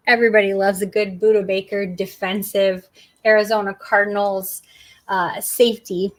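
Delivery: choking mid-sentence; words catching in a choking throat; choking on a drink. Real, not acted. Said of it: "I'm choking".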